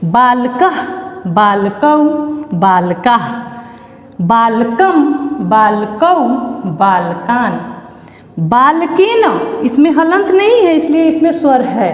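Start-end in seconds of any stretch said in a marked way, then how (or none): 0.1-9.2 each form said separately and evenly, with pauses; measured classroom drill, stretched syllables; model declension recitation. Shown as a demonstration. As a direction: recite the Sanskrit table for pupils to follow. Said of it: "अब इसको फिर से मैं पढ़ती हूँ".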